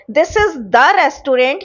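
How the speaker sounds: very slow, word by word example sentence; slow dictation. Shown as a demonstration. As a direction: spell out each word slowly for students. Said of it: "ये वही वाला".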